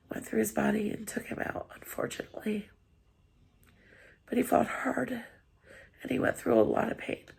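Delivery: tearful. Real, not acted. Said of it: "I have become a big blubby mess".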